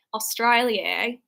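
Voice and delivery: slow, drawn-out mock Australian; botched Australian accent; attempted Australian accent. Shown as a demonstration. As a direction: try a bad Australian accent, stretching "Australia". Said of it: "I can't do an Australian accent".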